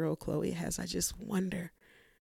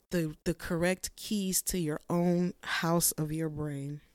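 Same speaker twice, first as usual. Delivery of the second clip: normal talking voice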